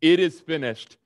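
loud, strong declaration; loud cry. Acted. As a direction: cry it out with strength to spare. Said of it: "He cried out".

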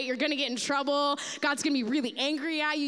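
fast, urgent warning; fly on the wall urging Moses to run; hurried warning. Retold or imitated. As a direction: rush to warn Moses. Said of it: "I'm like".

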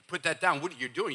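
quick run-through of stock phrases; rapid recital. Shown as a demonstration. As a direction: rattle them off without pausing. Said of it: "let me just say these all real fast".

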